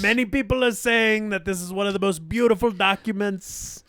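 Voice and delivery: hammed-up president repeating "very bad person"; Trump impression.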